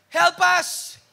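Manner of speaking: loud, high cry for help; crowd shouting. Retold or imitated. Preacher voicing the crowd calling on Jesus, loud cry. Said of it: "Sumisigaw sila".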